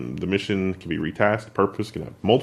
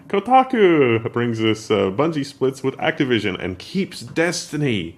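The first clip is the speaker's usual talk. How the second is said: excited anime fan voice; weeb voice; 3 semitones higher, slower than usual. Acted. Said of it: "Was that your weeb voice?".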